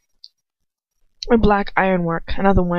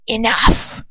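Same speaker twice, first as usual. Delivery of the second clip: ringing command. Acted. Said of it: "Voldemort's voice rings out".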